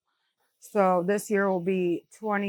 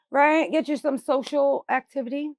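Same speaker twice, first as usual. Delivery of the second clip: higher-pitched chat to a loved one; encouraging; 6 semitones higher than usual. Real, not acted. Mother turning to her disabled daughter, encouraging. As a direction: coax her along in a higher voice.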